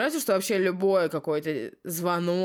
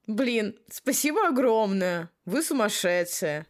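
joyful near tears; 4 semitones higher, 3 dB louder, slower than usual. Acted. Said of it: "еле сдерживая слёзы радости".

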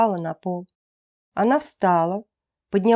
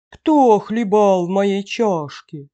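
slow mother-bear growl, held back a little; softened bear growl; 4 dB louder, slower than usual. A narrator's reading. Mother bear checks her bowl, growling not so loudly. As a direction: growl it slowly, short of a full roar. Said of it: "зарычала не так громко".

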